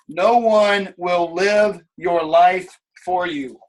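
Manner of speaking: each word spaced out and heavy; slow, weighty repeat. Shown as a demonstration. Coach to team, repeating slowly for weight. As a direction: let it sink in slowly.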